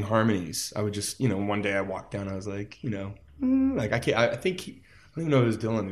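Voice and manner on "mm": high hummed note; sung hum. Retold or imitated. Musician showing how they joined in singing, high hum.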